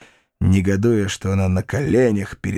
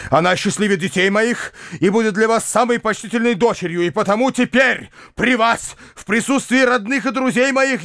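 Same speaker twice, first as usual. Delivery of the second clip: rising, impassioned, higher declaration of love; solemn declaration; 8 semitones higher than usual. A narrator's reading. Uncle proposing before the family, fervent and solemn. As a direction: build to a high, fervent proposal. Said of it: "продолжал он".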